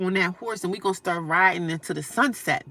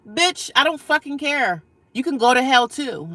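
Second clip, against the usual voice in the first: louder, slowed defiant curse at the troll; defiant anger; 6 semitones higher, 5 dB louder than usual. Real, not acted. Defiant rant at racist troll.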